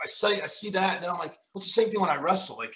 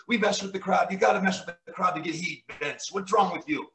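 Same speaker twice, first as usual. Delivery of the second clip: lightly imitated French Canadian accent, raised pitch; Pat Patterson; 4 semitones higher than usual. Veteran telling Vince to mess with crowd, French Canadian accent. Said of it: "he's like a strong Canadian French accent".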